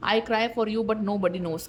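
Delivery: slow, deliberate reading; slow card message. Acted. Tarot reader voicing the partner's hidden crying, slowly. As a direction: let the message hang slowly.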